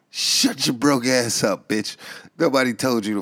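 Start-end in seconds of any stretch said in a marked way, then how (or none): 0.1-2.0 slow yell. Acted. Host yelling at caller.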